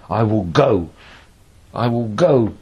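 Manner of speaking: "go" given the weight at the end; stress on GO. Shown as a demonstration. Teacher showing modulation of the voice, "go" stressed. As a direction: land firmly on the word "go". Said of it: "all I need is modulation of the voice".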